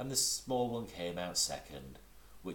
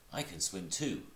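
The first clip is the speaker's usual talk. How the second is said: proudly. Acted. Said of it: "said Roo proudly".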